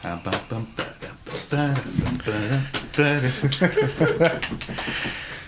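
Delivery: spoken percussive body-slap rhythm; hambone beat. Acted. Player beats out Sam's hambone rhythm.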